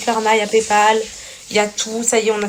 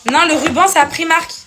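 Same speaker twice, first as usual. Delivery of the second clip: calling out; 8 semitones higher, 5 dB louder than usual. Real, not acted. Calls answer to someone off-mic.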